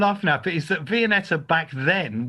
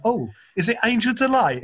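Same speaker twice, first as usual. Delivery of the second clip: higher, lightly acted dawning guess; mock realisation; 5 semitones higher than usual. Teller imitating Jeff guessing for the umpteenth time, mock surprised. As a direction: guess as if it had only just occurred. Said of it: "And he'd be like".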